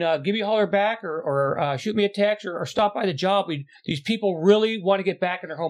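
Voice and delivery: butter him up on the phone; fake-nice message to a no-show worker; overly sweet voicemail. Sugary nice voicemail to deadbeat.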